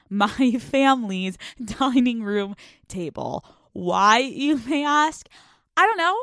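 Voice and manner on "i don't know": mock clueless. Mock clueless about her hobby.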